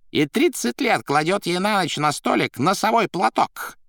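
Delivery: high, loud gossiping voice; Коровьев поясняет. Acted. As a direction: tell it like a gleeful gossip. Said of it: "пояснял Коровьев". (высоким голосом, с охотой)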